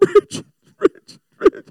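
fake blubbering, high-pitched, loud sobbing. Retelling how he acted toward his wife, the speaker calls her name, mock crying. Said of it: "and I start crying".

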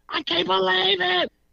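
play-acted very high, rasping, drawn-out shriek. Retelling how she slammed on the brakes, imitating her screaming. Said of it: "she's screaming like".

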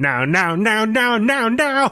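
very high, slow, stretched-out swooping voice. Doing an impression of a cartoon character for the other host: Cleveland impression. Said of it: "I'm gonna do my Cleveland impression".

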